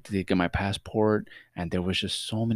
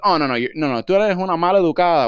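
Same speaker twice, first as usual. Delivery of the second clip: arguing; 8 semitones higher, 6 dB louder, faster than usual. Retold or imitated. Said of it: "The guy starts arguing with her".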